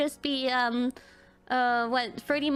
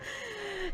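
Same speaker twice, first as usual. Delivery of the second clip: mock sob; 5 semitones higher, 9 dB quieter than usual. Re-enacting her breakdown in tears.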